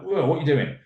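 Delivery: high-pitched startled question; baffled child. Acted. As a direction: imitate a kid taken aback. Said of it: "a bit baffled and confused".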